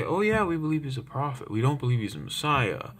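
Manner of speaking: high-pitched mock reassurance; mock agreeable. Voices Muslims' answer, mocking.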